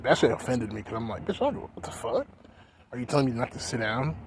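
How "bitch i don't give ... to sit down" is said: mock outraged retort. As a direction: pitch jumps up in disbelief. Retold confrontation with clerk.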